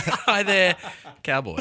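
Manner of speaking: laughing, flirty hello cowboy; flirty drawl. Pretend. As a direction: purr it like a romance novel. Flirty romance-novel greeting.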